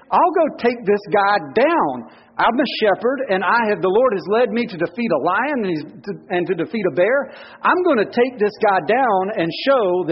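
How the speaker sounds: bold young shepherd, lightly voiced; a hint of a brash shepherd boy; David. Pastor voicing David to the church, mildly defiant. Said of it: "David's like".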